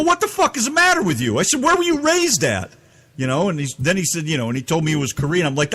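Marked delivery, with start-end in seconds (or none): 0.0-2.7 high, heated retold yelling; angry yelling. Retold angry phone rant.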